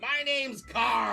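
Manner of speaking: drawn-out mock yell to oneself; imitated yelling. Imitating homeless guy who yells to himself in the alley, mock yelling. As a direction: imitate a man hollering his own name, stretched out. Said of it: "he yells to himself".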